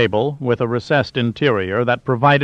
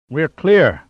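higher, delighted exclamation; delighted cry; 5 semitones higher, 4 dB louder than usual. A narrator's reading. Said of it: "Plunkett cried in delight".

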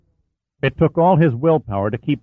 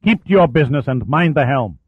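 snarl; 4 semitones higher than usual. Acted. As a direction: snap the order at the duty officer.

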